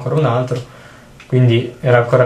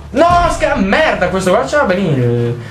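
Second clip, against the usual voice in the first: startled yelp; 5 semitones higher than usual. Real, not acted. Player startled by hard-hitting enemy.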